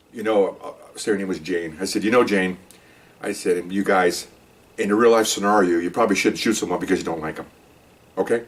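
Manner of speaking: low, measured boss talk; semi-serious. Retold or imitated. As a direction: play the boss keeping a straight face. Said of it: "kind of semi-serious".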